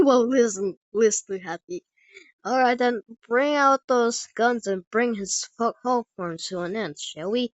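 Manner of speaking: easygoing Texan cowboy; Texan cowboy accent. Acted. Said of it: "heavy Texan cowboy accent".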